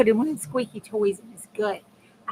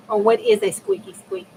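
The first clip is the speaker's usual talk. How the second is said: puzzled; 11 semitones higher, 5 dB louder than usual. Real, not acted. Puzzled by a strange squeak.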